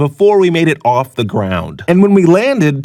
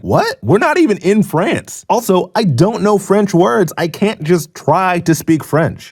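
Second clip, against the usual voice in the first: higher-pitched mock indignation; indignant protest; 3 semitones higher than usual. Tourist arguing back at homeless man, mock indignant. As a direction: protest in baffled disbelief.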